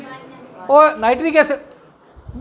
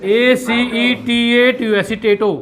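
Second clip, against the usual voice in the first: slow spelling; slower than usual. Shown as a demonstration. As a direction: spell ए सी ई टी ए टी ओ letter by letter, slowly. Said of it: "spelling out". (धीरे-धीरे spelling बताते हुए)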